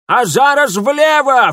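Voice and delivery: high, slow, loud crone yell; old woman screaming directions; shouted order. A narrator's reading. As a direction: yell the turn command. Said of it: "взвыла старуха".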